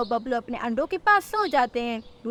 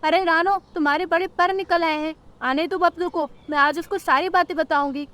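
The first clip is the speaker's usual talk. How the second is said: higher-pitched, threatening to tell her son; scolding mother-in-law; 4 semitones higher than usual. Acted. Mother-in-law threatens to tell Bablu, scolding.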